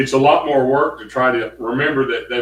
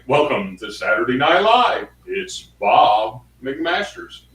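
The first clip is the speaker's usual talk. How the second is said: DJ voice; 2 semitones higher, 5 dB louder than usual. Retold or imitated. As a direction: boom it out like a DJ. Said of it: "it was a D J voice type thing".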